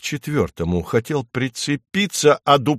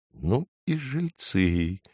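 breathless, slow, softer gasp of surprise; 4 semitones lower, 7 dB quieter, slower than usual. A narrator's reading. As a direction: let it out on a shocked breath. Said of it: "ахнул дятел".

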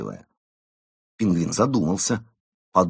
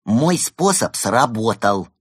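slow, louder gloating; triumphant; 4 semitones higher, 5 dB louder, slower than usual. Acted. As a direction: savour the win. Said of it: "торжествующе сказал Евгений".

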